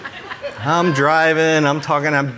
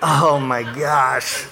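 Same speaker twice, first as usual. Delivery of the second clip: laughing; 4 semitones higher, much slower than usual. Real, not acted. Laughing at own mistake.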